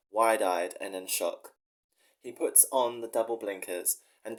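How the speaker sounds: earnest dramatic story reading. Acted. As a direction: read it like a dramatic short story. Reads his story aloud.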